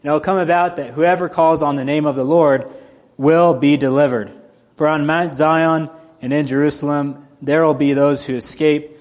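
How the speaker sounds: steady, measured Bible reading; scripture reading. Acted. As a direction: read the passage with weight. Reads scripture passage aloud.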